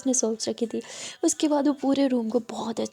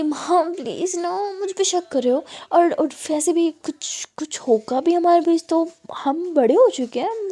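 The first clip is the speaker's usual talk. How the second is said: indignant whine; 5 semitones higher than usual. Acted. Daughter whining indignantly.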